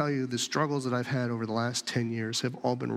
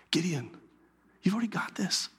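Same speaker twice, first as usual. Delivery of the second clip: whispered reassurance; 4 semitones higher than usual. Acted. Pastor voicing God, whispering to Gideon. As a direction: breathe it close to Gideon.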